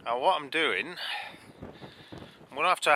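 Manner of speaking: windy clifftop. Real, not acted. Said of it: "can't hear me over the wind noise".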